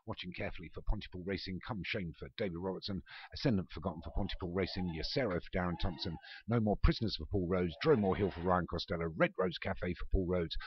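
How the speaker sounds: live play-by-play calling the runners; race commentary. Acted. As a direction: call the field like a racecourse commentator.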